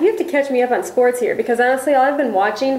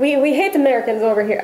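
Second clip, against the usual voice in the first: bad Irish accent. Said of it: "that's the worst Irish accent ever".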